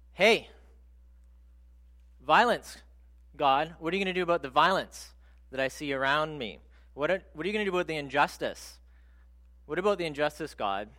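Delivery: upset complaint to God. Retold or imitated. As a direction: press God hard about the injustice. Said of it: "And he's really upset".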